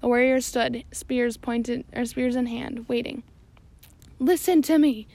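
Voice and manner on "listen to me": high, loud desperate shriek. Acted. Stash desperate before the mollusks, high loud shriek. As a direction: shriek it at the warriors. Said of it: "shrieked Stash".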